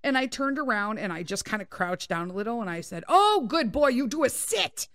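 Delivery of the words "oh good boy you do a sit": dog praise. Retold or imitated. Praising dog to make him sit.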